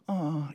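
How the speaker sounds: mock sympathetic "aw"; pitying tut. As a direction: imitate a tongue-click of pity. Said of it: "make that noise with our tongue".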